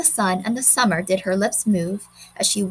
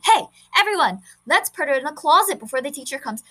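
put-on rallying boy; 5 semitones higher, faster than usual. Boy rallies children.

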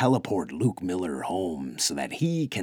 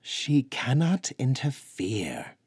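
definitive; 4 semitones higher than usual. Acted. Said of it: "Hrodwin pronounced definitively".

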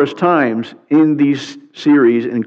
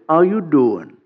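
put-on New Hampshire accent; slower than usual. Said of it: "teach me how to say".

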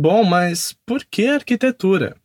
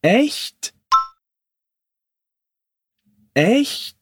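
surprised demo; 5 semitones higher than usual. Shown as a demonstration. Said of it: "Repete comigo".

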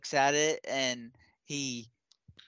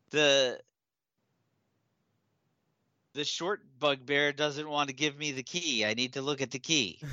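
pleading goblin; 3 semitones higher than usual. Acted. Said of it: "he turns to you and he says".

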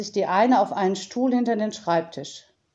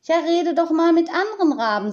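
quoting herself; 9 semitones higher, 4 dB louder, faster than usual. Retold or imitated. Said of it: "sage ich dann".

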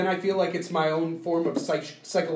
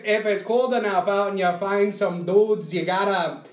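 put-on jokey Canadian accent, laughing through it, a bit louder; 2 semitones higher, 5 dB louder than usual. Mocking a Canadian survival host in a laughing Canadian accent. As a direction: ham up a friendly Canadian woodsman accent. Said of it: "we don't even sound like that, bud".

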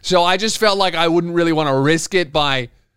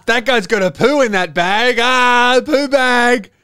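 louder, higher, building to a gleeful cry; mocking onlooker; 9 semitones higher, 6 dB louder, slower than usual. Stranger spots the paper bag, hammed-up loud taunt. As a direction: gossip that swells into a taunt. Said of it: "everyone looks at you and goes".

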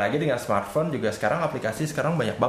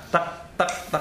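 short spoken "tak" ticks; imitated progress-bar ticks; 7 semitones higher than usual. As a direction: imitate a ticking loading sound.

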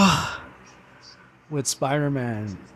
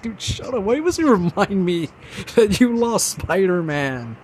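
mock-annoyed complaint; 5 semitones higher than usual. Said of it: "I'm like".

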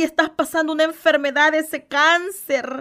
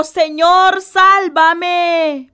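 cry for help; 2 semitones higher, 6 dB louder, much slower than usual. Acted. Pedro sinking in the sea, crying out loud to Jesus. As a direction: call out as if sinking. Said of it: "Entonces gritó".

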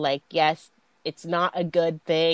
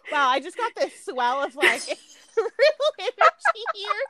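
mock thrilled; 11 semitones higher than usual. Retelling her own thrilled reaction.

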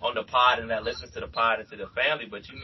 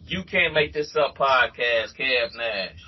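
echoey Skype call audio; phone line echo; 2 semitones higher, 4 dB louder than usual. Real, not acted. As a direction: sounds like a choppy online call. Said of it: "if we sound a little echoey".

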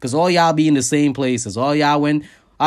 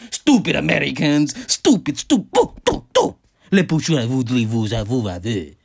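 mock French accent. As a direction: heckle like a sneering Parisian in fake French. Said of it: "That's my impersonation of some French".

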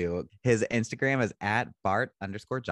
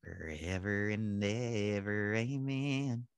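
mock prayer; 6 dB quieter, much slower than usual. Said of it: "Oh, that was beautiful".

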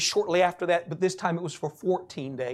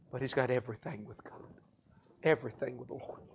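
low, soft, measured preaching; hushed testimony; 3 semitones lower, 5 dB quieter than usual. Retold or imitated. Preacher quietly retelling a man's testimony to the church, hushed. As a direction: tell it softly and reverently.

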